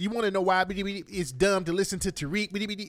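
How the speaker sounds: hint of an indignant tweeter, lightly hammed; Roland's voice. Reading Roland's angry tweet aloud, mild mocking impression. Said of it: "I'm gonna read it in his voice".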